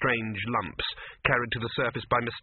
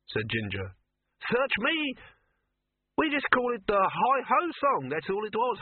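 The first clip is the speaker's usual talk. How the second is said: high, small dwarf voice; 8 semitones higher than usual. Acted. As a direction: chatter on as a little dwarf.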